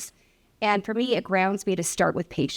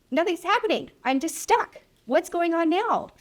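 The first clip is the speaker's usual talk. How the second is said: exasperated patient asking what's wrong; frustrated patient; 10 semitones higher than usual. Retold or imitated. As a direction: plead like a stuck, fed-up patient.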